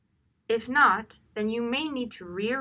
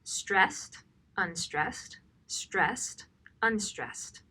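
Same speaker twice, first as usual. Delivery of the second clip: spelling out the pattern; much slower than usual. Shown as a demonstration. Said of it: "The rhythm of this text is stressed".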